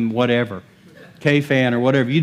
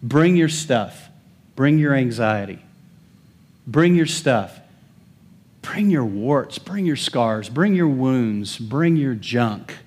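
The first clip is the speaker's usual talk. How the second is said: God's gentle invitation; 3 semitones lower, slower than usual. Retold or imitated. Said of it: "God says".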